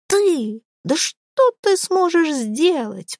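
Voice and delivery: high, slow, mocking sneer; sneering scorn. Beaten boss mocking Jack's threat, slow high sneer. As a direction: look down on him with a slow sneer. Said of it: "прищурился тот".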